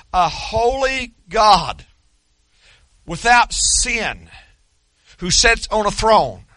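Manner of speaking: slow ringing shout of holy God; preacher lifting up a holy God in awe; preaching shout. Acted.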